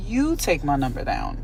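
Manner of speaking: slow, pointed retort; slow, defiant "You take my number down"; sassy slow comeback. Retold or imitated. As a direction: throw it back at him slowly. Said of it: "I say".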